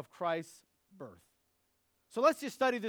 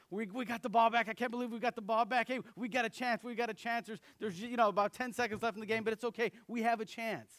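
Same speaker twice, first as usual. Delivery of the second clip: retold excited cheering, a little higher; excited yelling; 3 semitones higher, faster than usual. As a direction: brothers cheering the recovered onside kick, excited. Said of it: "we're yelling".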